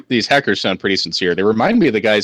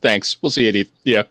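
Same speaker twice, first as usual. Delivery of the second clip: smug corporate reply. Retold or imitated. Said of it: "publicly said".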